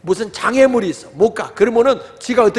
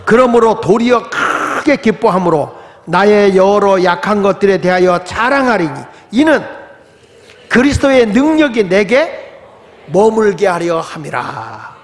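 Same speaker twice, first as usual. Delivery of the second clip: slow, loud group recitation; congregational scripture reading; 3 dB louder, slower than usual. Acted. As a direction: read the verse together, drawn out. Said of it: "그러므로, 시작".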